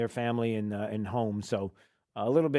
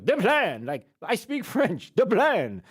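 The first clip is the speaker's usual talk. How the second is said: mocking Kamala Harris; 5 semitones higher, 4 dB louder, slower than usual. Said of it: "She goes".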